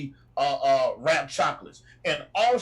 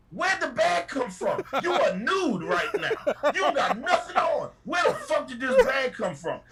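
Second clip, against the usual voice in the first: angry confrontation; 9 semitones higher than usual. Retold or imitated. Driver confronting naked-handed snack thief, incredulous scolding. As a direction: demand answers from the snack thief, laughing in disbelief.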